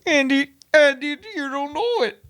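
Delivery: exaggerated, teary mock lecturer; Jordan Peterson impression. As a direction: ham up a wailing Peterson plea. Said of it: "That was my Jordan Peterson".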